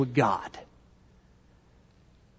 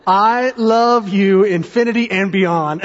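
slow tender; slower than usual. Retold or imitated. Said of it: "he made this symbol".

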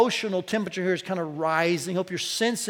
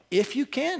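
raised-pitch doubting repeat; incredulous echo; 5 semitones higher than usual. Acted. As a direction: echo it back as a challenge. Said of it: "repeating back what the father said".

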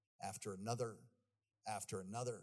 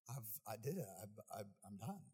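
quiet surrender; 5 semitones lower, 8 dB quieter than usual. Retold or imitated. Surrender while drowning.

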